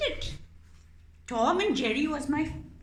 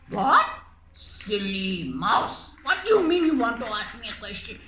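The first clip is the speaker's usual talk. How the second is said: mock-scornful cat, quick at the end; scoffing cat; 5 dB louder, faster than usual. Cat puppet mocking the mouse's request, scornful. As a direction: sneer at the silly mouse.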